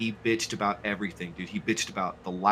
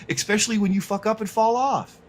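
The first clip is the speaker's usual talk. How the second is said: higher, through laughter; laughing; 10 semitones higher, 5 dB louder than usual. Real, not acted. Streamer joking about falling off the trailer, laughing. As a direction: laugh while getting the line out. Laughing at his own joke.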